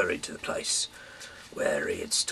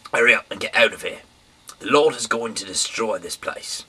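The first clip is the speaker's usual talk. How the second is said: loud, fast, high urging; urgent warning; 4 semitones higher, 9 dB louder than usual. Acted. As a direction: rush them out the door. Lot urging future sons-in-law.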